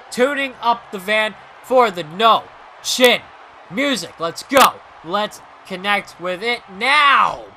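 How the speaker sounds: excited shouting play-by-play; wrestling commentator. Acted. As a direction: yell the near-fall like a commentator. Commentating the match climax.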